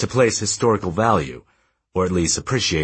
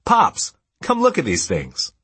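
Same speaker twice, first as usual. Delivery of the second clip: high, drawn-out call to dad; excited calling out; 10 semitones higher than usual. A narrator's reading. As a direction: summon someone from across the basement. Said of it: "said from across the dusty basement".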